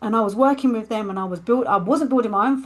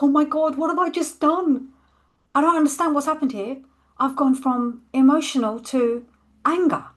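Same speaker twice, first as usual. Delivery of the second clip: much higher and louder, alarmed at herself; shocked panic; 7 semitones higher, 4 dB louder than usual. Retold or imitated. After swearing at a stranger on the way home, shocked and panicked. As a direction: blurt it out as if you can't believe what you just did.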